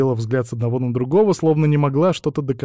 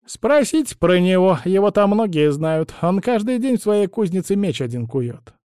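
put-on higher, fussy old crone voice; old woman; 7 semitones higher, 4 dB louder than usual. A narrator's reading. Old woman instructs travellers about the spindle, high crone voice. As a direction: chatter on like a meddling old woman.

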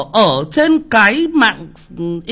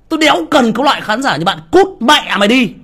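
angry dismissal; 3 semitones higher than usual. Real, not acted. Streamer to a rude commenter, fast angry dismissal. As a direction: spit it out and be done with him.

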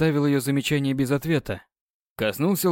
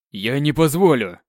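angry outburst; 5 dB louder than usual. Acted. King refuses in anger.

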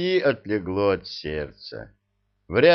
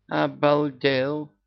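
gasping; 7 semitones higher, much slower than usual. A narrator's reading. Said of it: "ахнула Яга".

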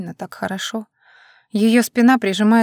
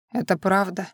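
hushed, husky broken question; hoarse, unlike himself; 6 dB quieter than usual. A narrator's reading. Vasil asks her, stunned, in a hoarse hushed voice. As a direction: ask it as if your voice has given out. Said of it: "спрашивает осипшим, тоже не своим голосом".

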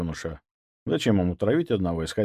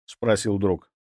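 ordinary delivery, nothing marked

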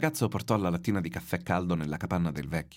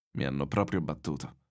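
put-on weary old man; 4 semitones lower than usual. Exhausted old man repeats defeat.

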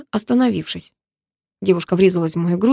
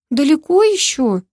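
higher, slow tired whine; whiny moan; 7 semitones higher, 3 dB louder, slower than usual.

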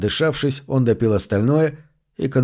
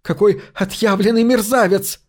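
disgusted; 8 semitones higher than usual. A narrator's reading. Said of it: "с отвращением выговорила она".

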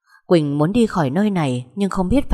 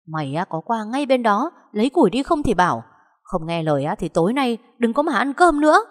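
angry threat; 5 semitones higher than usual. Acted. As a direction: threaten her, sharp at the end. Stepmother threatening no dinner. (đe dọa giận dữ, lên giọng cao)

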